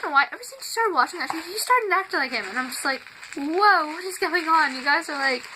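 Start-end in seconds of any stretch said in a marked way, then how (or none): 3.3-4.7 louder, higher startled exclamation; retold astonishment. Seeing Mom's boyfriend mimic a TV star, astonished. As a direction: burst out baffled, acting out your reaction.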